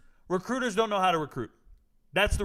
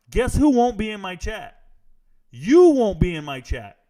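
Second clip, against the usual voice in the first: loud taunt; 8 dB louder than usual. Real, not acted. Taunting doubters.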